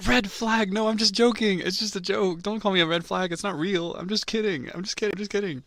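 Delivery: loud, high mock-panicked denial; hammed-up frantic pleading; frantic protest. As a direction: backpedal urgently, high and loud. Mock-frantic backpedalling after being called red flag.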